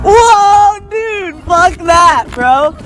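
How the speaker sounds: shocked shout. Real, not acted. Reacting to nearby strike.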